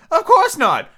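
high, loud turtle voice; Mock Turtle figure. Mock Turtle advising Alice, high character voice. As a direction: declare it way up high as a storybook turtle.

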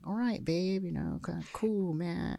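hint of a laid-back American actor; Mel Gibson. Podcaster contrasting the star with his castmates, light imitation.

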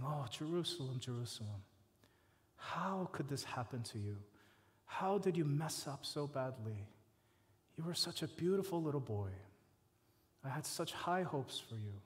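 soft, hushed lament of a mother; a quiet, heartbroken plea to a lost son; grieving mother. Retold or imitated. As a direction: mourn over a lost son, softly. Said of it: "I picture Jesus like this mother".

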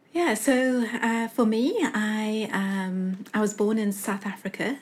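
playful Valley Girl impression. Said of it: "this is my best Valley Girl impression".

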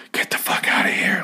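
menacing whisper meant to unnerve; creepy whisper. Retold or imitated. Telling a late-night prowler to leave, in a creepy whisper. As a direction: whisper it low and creepy, as a warning. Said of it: "like, whispering, trying to be creepy".

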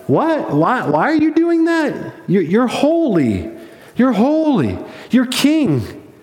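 high-pitched, incredulous protest; confused angels. Acted. Angels questioning God's redemption project, baffled. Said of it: "angels are kinda confused".

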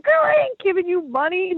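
high, bright imitation of a chatty woman from a car; roadside stranger. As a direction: play the nosy friendly stranger calling from her car. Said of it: "She's like".

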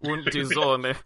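slow mock German phrase; fake German. Shown as a demonstration. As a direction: ham up a pseudo German line. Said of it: "Imagine it sounds like German".

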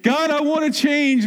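earnest prayer. Retold or imitated. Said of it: "take a communion".

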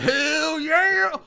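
high, loud hammed-up whoop; a loud, hammed-up triumphant yell; mock cheer. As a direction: cheer it like a thrilled teen girl. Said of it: "now we have Becky like".

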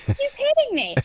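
alarmed yelling to bystanders; retold shouting. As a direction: call out to the street that he's hitting you. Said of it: "I just start shouting".

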